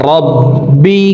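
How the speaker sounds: রব্বিকাল্লাযী with the doubled ব and the যী held one alif long; madd demo. Shown as a demonstration. Teacher showing the one-alif stretch, careful. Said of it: "জি এখানে এক আলিফ টান".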